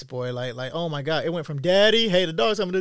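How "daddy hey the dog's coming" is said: imitating a little girl's alarm. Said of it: "you could hear this little girl's terror in her voice".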